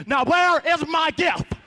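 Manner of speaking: loud, slow demand; slow, loud, pointed demand. Acted. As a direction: make him answer for it. Demanding girlfriend.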